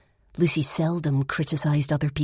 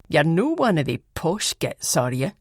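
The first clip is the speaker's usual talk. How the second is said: put-on Fife accent. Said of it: "in her best Fife accent".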